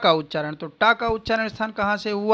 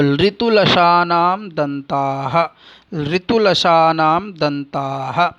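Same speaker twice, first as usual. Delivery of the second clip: slow, deliberate chant of ऋतुरसाणाम मूर्धा; sutra recitation; 2 semitones lower, much slower than usual. Shown as a demonstration. Teacher reciting the Sanskrit rule slowly for students. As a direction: lay out each syllable of the sutra slowly.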